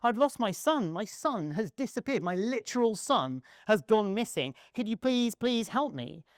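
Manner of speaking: lightly voiced quest-giver begging for help; a hint of a game villager pleading over his lost son; distraught NPC father. Open world NPC asks the player to find his son, mild mock pleading. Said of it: "And he says".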